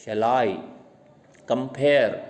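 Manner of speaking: "Shall I compare" with "I" and the "pare" of "compare" stressed; light "Shall" and "com", weight on "I" and "pare"; iambic stress. Shown as a demonstration. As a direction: beat out "Shall I compare" weak-strong, weak-strong. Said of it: "कंपेयर में भी कम पे कम stress देना है".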